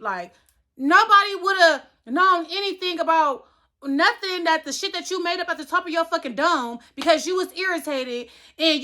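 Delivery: heated rant at the coworker who lied; angry rant. Real, not acted. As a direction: vent the fury at her, pitch up. Ranting angrily about lying coworker.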